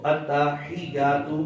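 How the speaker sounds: "التحیات" as at-ta-hi-yaat, ya not pressed; common mistake demo. Shown as a demonstration. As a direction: say "التحیات" slowly but with a light ya. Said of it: "اکثر لوگ پڑھتے ہیں".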